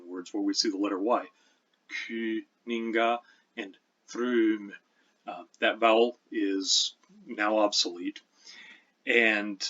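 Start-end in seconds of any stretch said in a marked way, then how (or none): 2.1-4.7 put-on Kuninga and Thrum said slowly, as Old English; slow, careful Old English vowels in Kuninga and Thrum; Old English pronunciation. Shown as a demonstration. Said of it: "so here's how it sounds".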